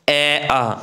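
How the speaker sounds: ए and आ voiced from the throat; throat vowels demo. Shown as a demonstration. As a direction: sound ए, आ from the throat. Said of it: "बोल के देखो आप".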